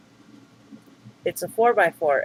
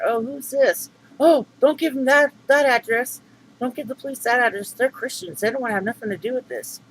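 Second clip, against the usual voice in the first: higher, louder, hurried mock plea; hammed-up panicky higher voice; mock pleading girlfriend; 6 semitones higher, 4 dB louder than usual. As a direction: imitate her frantic begging not to give the address. Mimics her pleading reply.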